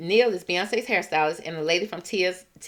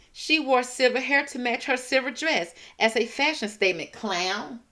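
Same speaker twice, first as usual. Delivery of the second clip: scornful quote; 6 semitones higher than usual. Retold or imitated. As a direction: talk down to them like fools. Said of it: "this is how she talking to y'all".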